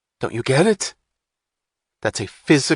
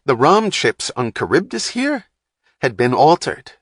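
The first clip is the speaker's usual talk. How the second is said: much higher, louder, fast rant; agitated rant; 6 semitones higher, 5 dB louder than usual. A narrator's reading. Wapner ranting at Hatch about the crash, agitated. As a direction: vent the frustration.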